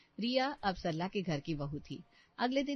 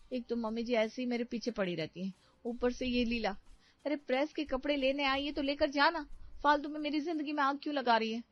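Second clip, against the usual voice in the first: higher-pitched, exasperated aside; irritated grumbling; 6 semitones higher than usual. Acted. Bride silently fumes at meddling laundry woman, irritated grumbling. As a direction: grumble crossly to yourself. Riya grumbles to herself about Leela.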